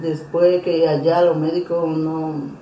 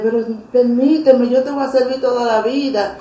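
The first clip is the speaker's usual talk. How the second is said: higher-pitched reenacted plea; pleading; 5 semitones higher than usual. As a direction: beg to be allowed a promise. Retells pleading with God. (súplica con voz más aguda)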